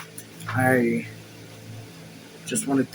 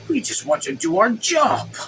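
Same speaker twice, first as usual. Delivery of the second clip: slowed down; 10 semitones higher than usual. Shown as a demonstration. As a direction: take it again, unhurried. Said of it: "I'm talking too fast".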